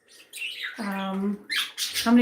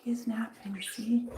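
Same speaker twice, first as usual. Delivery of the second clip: whisper; 12 dB quieter than usual. Real, not acted. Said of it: "That's why I'm whispering".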